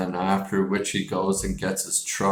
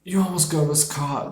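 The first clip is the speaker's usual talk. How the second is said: higher, put-on old man scolding; angry old man; 7 semitones higher than usual. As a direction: snap it like a cranky old man. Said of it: "He's like".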